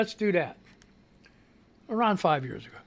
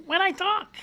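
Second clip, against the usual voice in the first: much higher squeaky cartoon-mouse pitch, as if sped up; Mickey Mouse voice; 12 semitones higher than usual. Real, not acted. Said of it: "sound like Mickey Mouse".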